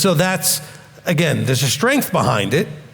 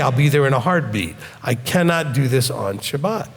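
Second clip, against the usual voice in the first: steady, calm and firm, never raising the voice; quiet strength. Shown as a demonstration. To an upset relative getting in your face, calm and firm. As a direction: hold your ground gently. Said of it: "you maintain that strength, but quietly".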